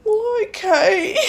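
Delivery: slow, high "well, okay" breaking into laughter; laughing. Real, not acted. Retelling her chat with the worker, laughing through the words.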